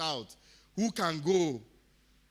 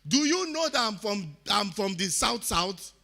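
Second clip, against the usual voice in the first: raised, higher retelling of a shout; half-shouting the comeback, pitched up; retold scream; 5 semitones higher, 4 dB louder than usual. Telling the people at the meeting, a raised retold yell. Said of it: "I screamed".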